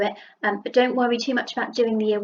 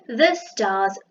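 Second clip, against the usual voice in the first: drawn out, word by word; slow pointing read; slow reread; much slower than usual. Shown as a demonstration. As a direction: read it back slowly to check. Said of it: "There we go".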